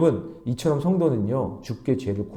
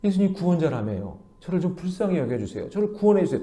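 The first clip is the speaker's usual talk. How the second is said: mildly pleading, a little higher; polite pleading; 4 semitones higher than usual. Shown as a demonstration. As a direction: demonstrate a humble, courteous plea. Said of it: "이렇게 얘기했어야죠".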